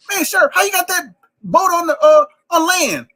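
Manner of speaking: high, loud mock bayou Cajun accent; stereotyped Cajun accent. Comedian shows what people think New Orleans sounds like, exaggerated Cajun accent. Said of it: "people think New Orleans just talk like this".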